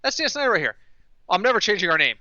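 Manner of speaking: mock kung fu hero. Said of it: "They do a, a Bruce Lee parody".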